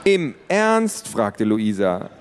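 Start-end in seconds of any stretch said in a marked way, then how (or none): 0.0-1.1 much higher, louder disbelief; can't believe it; incredulous. Acted. Teen daughter reacts to father keeping neighbour, incredulous.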